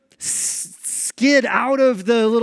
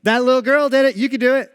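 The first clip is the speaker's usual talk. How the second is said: shaming coax; 4 semitones higher, 5 dB louder, faster than usual. Retold or imitated. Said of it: "shaming my kid".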